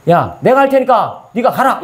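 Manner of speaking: slow, steady, 할 stressed; slow emphatic promise. Shown as a demonstration. Preacher voicing what God told Joshua, slow emphasis. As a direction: draw out 할 as God's firm promise. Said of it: "이거예요".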